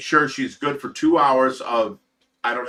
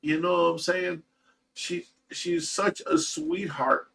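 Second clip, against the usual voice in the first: ordinary talk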